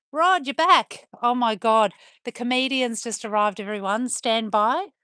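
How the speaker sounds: excited greeting. Real, not acted. Greeting a returning viewer.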